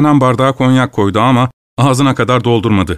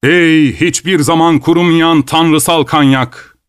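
slow, higher declamation; poetic recitation; 4 semitones higher, slower than usual. A narrator's reading. Guest praising cognac as a poet would, poetic recitation. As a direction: declaim it slowly like a line of verse. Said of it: "bir ozanın dediği gibi".

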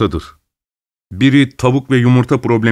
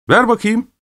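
eager, higher, snatching at it; 11 semitones higher than usual. A narrator's reading. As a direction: pounce on the note. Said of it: "diye atıldı Musil hevesle". (hevesle, tiz ve istekli)

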